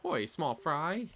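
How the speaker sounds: a hint of a stern pirate captain; serious pirate girl. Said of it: "a pretty serious voice".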